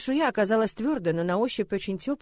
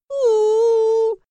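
high loud crying howl; dragon wailing cry; 14 semitones higher, 9 dB louder than usual. A narrator's reading. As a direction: wail like a hurt little dragon. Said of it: "по-человечески завыла". (обиженный вой дракончика)

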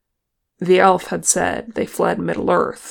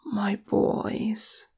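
sad tenderness; 3 semitones higher, 6 dB quieter than usual. A narrator's reading. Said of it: "gave them a sad smile".

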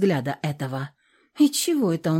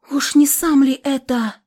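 sudden, higher, louder question; sharp; 8 semitones higher, 6 dB louder than usual. A narrator's reading. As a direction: burst out sharply. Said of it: "Резко подалась вперёд Настя".

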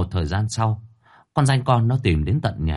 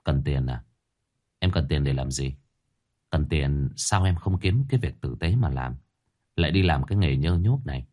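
calm and gentle; 6 semitones lower than usual. A narrator's reading. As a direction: ask her gently, like a calm older brother. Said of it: "đoạn ôn tồn".

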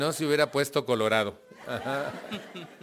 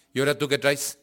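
louder mock-challenging comeback; imitating an annoyed father, voice raised; confrontational retort; 3 semitones higher, 5 dB louder, faster than usual. Father challenging his son who stood up to him, annoyed.

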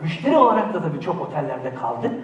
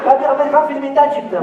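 higher, louder mock film hero; hammed-up American film character; movie character voice; 8 semitones higher, 6 dB louder than usual. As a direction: announce yourself like a Hollywood lead. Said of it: "Kimsin lan sen?".

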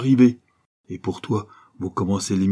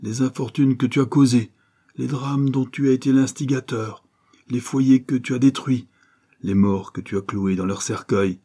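a hint of a stern avenger, raised at times; stern accuser. Kerjean to the banker Favreau in his cell, stern accusation. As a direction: hurl the charges at him one by one.

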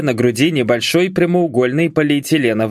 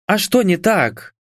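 innocent; 7 semitones higher than usual. A narrator's reading. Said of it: "невинно похлопала".

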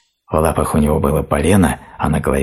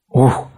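sighing hoot; 9 semitones higher than usual. A narrator's reading. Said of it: "вздыхал он".

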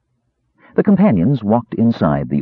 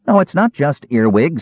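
huffy, higher-pitched protest; indignant; 7 semitones higher than usual. Acted. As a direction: bristle at the idea, correcting him. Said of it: "said the kender indignantly".

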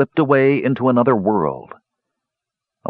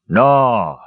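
a louder, indignant no; indignant cry; 4 dB louder than usual. Acted. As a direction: protest hotly at being doubted. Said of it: "Sturm cried indignantly".

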